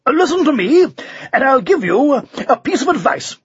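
muster all your courage and call down; bold call. A narrator's reading. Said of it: "called out in the boldest voice he could muster".

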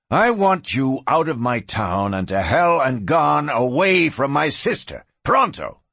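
forceful order with punched words; angry ultimatum. Acted. Rancher orders gunman away from his sister, angry.

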